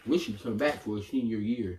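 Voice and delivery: talking while eating pretzels; words around a mouthful of pretzels; mouth full. Real, not acted. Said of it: "stop burping and eating pretzels".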